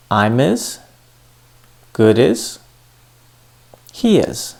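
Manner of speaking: "I'm is", "good is", "He is" each run together as one word; linking demo. Shown as a demonstration. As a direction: glue the last sound of each first word onto "is". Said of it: "where is the linking".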